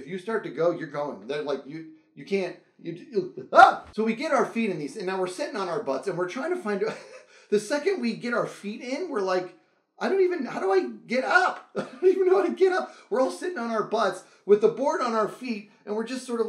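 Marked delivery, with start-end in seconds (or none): 3.5-3.8 sudden high yelp; short startled cry as you tip over; quick surprised yelp; yelp of alarm. Retold or imitated. Falling at once on the board. 10.0-13.0 high, laughing cry of helplessness; high laughing whine of confusion; laughing disbelief. Retold or imitated.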